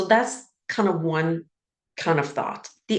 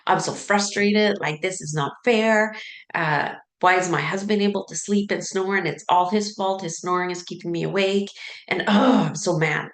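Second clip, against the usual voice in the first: mock frustration. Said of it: "this fight or flight energy".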